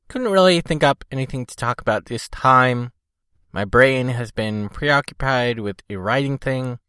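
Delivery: talking thickly with a cold; swollen tongue. Real, not acted. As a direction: speak as if your tongue is swollen. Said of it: "you can probably tell I'm talking a little funny".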